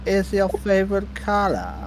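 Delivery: mock bridgekeeper question. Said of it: "And I'd be like".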